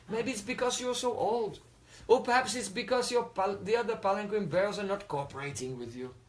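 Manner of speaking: drip fake concern over him; sarcastic. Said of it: "very sarcastically".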